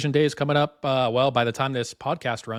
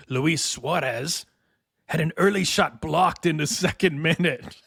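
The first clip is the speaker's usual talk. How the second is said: thespian voice. Acted. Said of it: "my thespian voice".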